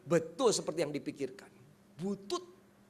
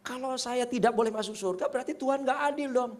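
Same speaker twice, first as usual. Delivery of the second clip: protesting; 6 semitones higher than usual. Retold or imitated. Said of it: "kalau B-nya protes gimana".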